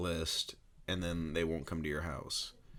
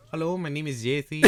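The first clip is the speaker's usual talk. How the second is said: higher and louder goofy parody voice; mocking imitation; 9 semitones higher, 9 dB louder than usual. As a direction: ham up his friend introducing himself. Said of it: "Oh, sorry, sorry".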